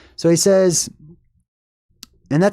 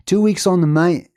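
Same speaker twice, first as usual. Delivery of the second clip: lightly attempted Australian accent; a first go at an Australian accent, slightly higher; 4 semitones higher than usual. Retelling the movie character's line, tentative Australian accent. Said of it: "about to do an Australian accent".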